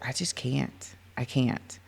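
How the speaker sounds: defeated. Retold or imitated. Overwhelmed, fight or flight.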